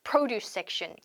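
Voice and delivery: produce stressed on PRO in produce section; first-syllable stress. Shown as a demonstration. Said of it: "produce section이 아니라 produce section".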